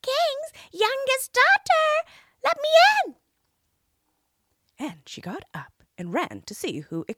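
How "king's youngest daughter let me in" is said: crying frog at the door. A narrator's reading. Frog calling the princess through the door, high and loud. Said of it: "a voice crying".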